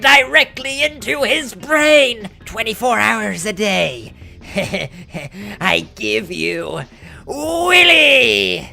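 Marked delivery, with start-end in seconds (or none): 5.6-8.7 grand announcement. Acted. Grand unveiling of creation.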